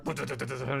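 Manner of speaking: rapid stuttered car noise; quick mouth-made engine sputter; imitated car. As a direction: mimic a car speeding away. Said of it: "You hear a car".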